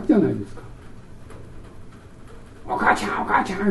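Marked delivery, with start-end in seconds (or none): 2.7-3.7 soft, breathless little-child wail, imitated; child crying for mom. Preacher imitating a daycare child missing mom, soft mock crying. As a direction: lightly voice a child calling for mom. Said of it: "ってね、泣きますよね".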